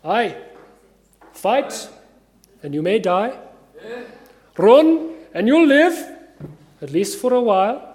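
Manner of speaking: put-on measured Scottish-accented reply, with pauses; lightly voiced Scottish commander weighing it up; William Wallace. Leader answering reluctant soldiers, measured Scottish accent. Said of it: "my attempt at a Scottish accent".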